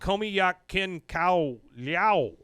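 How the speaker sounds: slow, careful mock-Lao chant; attempted foreign phrase. Shown as a demonstration. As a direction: sound it out slowly like a foreign cheer. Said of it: "I'm gonna try this".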